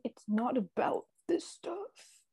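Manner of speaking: whispered earnest advice; soft whisper. Retold or imitated. Shane comforting Mitchie, mock whisper. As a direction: say it softly, like a secret. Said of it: "He's like".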